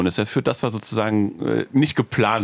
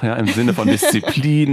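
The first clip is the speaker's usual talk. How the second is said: laughing; 4 dB louder than usual. Real, not acted. Teasing about mother's remark.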